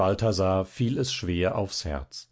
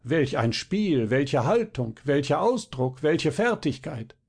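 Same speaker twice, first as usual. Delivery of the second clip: mock admiration; 3 semitones higher than usual. Imitated audience raving over Zinnober.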